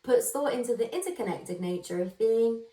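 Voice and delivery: put-on bright, show-opening intro in a light American accent. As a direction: welcome the listeners like a US podcast host. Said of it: "I don't know why I did an American accent".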